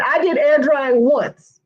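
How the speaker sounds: slow quote with "once" drawn out; stress on "once". Retold or imitated. Stylist quoting a veteran client's comment, stress on "once". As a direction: read it slowly, leaning hard on "once". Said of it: "Emphasis on once".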